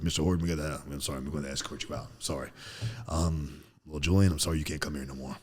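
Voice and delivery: a hint of a polite, uneasy administrator; school official. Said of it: "they called to the school".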